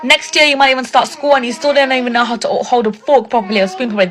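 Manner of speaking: mock a toddler's poor table skills; imitating mockery. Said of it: "they'll make fun of the kids".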